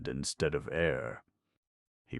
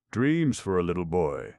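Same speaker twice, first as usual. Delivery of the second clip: put-on little-boy label; 3 semitones higher, 5 dB louder than usual.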